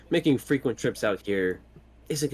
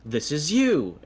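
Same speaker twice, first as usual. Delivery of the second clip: raised pitch on an imagined accuser's cry; mock recognition; 5 semitones higher, much slower than usual. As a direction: act out someone spotting a wanted face. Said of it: "they're gonna look at me and go".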